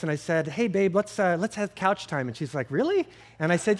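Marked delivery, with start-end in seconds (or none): 0.5-2.3 retold sweet invitation, a little raised; really nice. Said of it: "I was really nice". 2.7-3.1 high, sharply rising disbelieving question; surprised. Retold or imitated. Wife's retold surprised reply.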